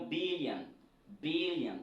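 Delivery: "billion" stressed first, ending "-yan"; English pronunciation. Shown as a demonstration. Teacher introduces the word to learners, English model pronunciation. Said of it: "Ce n'est pas billion".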